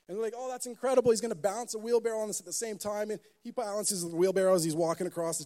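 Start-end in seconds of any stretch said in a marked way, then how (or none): 0.4-3.1 amazed crowd. Retold or imitated. Crowd marvels.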